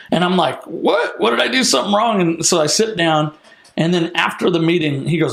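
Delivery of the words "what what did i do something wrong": high-pitched bewildered question; retold alarm. Young preacher fears he has done wrong, mock alarm. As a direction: act out worried disbelief, pitch jumping up. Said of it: "I was terrified again".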